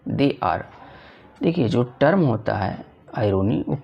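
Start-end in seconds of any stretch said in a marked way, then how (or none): 0.1-0.6 reading the question out slowly and carefully. Shown as a demonstration. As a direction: dictate each English word. Teacher reads the MCQ aloud. (प्रश्न धीरे-धीरे पढ़कर सुनाना)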